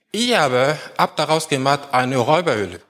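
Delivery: "Ihr aber" stands out, "eine Räuberhöhle" left without emphasis; stress on sentence front. Shown as a demonstration. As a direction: put the weight on "Ihr aber habt daraus gemacht". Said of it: "Die Betonung liegt nicht auf das Wort Räuberhöhle". (Betonung vorne auf „Ihr aber“, nicht auf „Räuberhöhle“)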